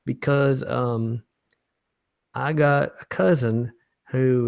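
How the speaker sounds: loud, slow, earnest reading of the letter; folksy letter writer. Acted. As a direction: drag out each word like a worried Southern viewer.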